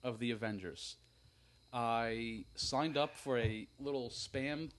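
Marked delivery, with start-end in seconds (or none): 0.0-1.0 slow, spaced-out announcement; deliberate boast. Real, not acted. Repeating his boast on request, slow and deliberate. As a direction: state it slowly, savoring each part.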